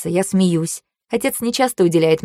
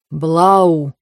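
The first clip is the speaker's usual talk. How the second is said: almost tender; 4 dB louder than usual. Acted. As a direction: call her name gently. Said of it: "почти нежно зовёт меня".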